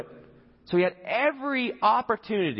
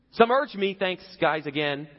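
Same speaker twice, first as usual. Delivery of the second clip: higher, louder dig at his men; sarcastic aside; 4 semitones higher, 4 dB louder than usual. Retold or imitated. David needling his own men mid-speech, higher sarcastic aside. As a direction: throw a sarcastic jab over your shoulder. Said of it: "he looks back at his guys like".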